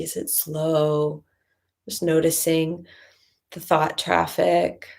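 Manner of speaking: measured check-in with long pauses between phrases; guided meditation. Acted. Teacher leading listeners to notice body and thoughts, calm meditation guidance. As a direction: guide them gently inward, leaving space after each phrase.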